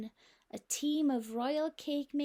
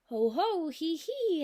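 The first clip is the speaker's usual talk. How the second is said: mock laugh; 5 semitones higher, 6 dB louder than usual. Knight laughing at a joke.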